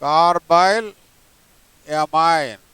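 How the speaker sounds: carbyl with a rise, a pause, then amine falling; teacher spells out carbyl amine piece by piece; split into parts. Shown as a demonstration. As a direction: break carbyl amine into its two parts, pausing between. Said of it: "దీన్ని ఏమనాలి అంటే carbyl amine".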